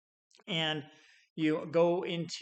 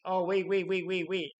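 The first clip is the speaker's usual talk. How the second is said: higher, louder hurried stalling; urgent pleading; 5 semitones higher, 4 dB louder than usual. Acted. Customer stalling the rep who's come for the equipment, urgent. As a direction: beg them to hold on, rising fast.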